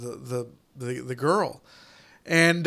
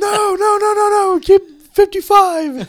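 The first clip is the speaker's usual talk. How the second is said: mock frantic pleading; 8 dB louder than usual. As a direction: beg like a panicked driver caught speeding. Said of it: "I was like".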